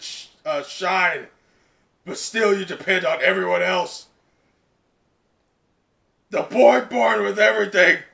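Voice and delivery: a hint of a sneering villain; mocking villain. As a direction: sneer at the younger brother. Voicing the villain Dabi.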